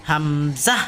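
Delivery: হামজাহ with a rising "zah"; emphatic final zah. Shown as a demonstration. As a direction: hum the m of হামজাহ, then release "zah". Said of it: "ঝাহ উচ্চারণটা হবে".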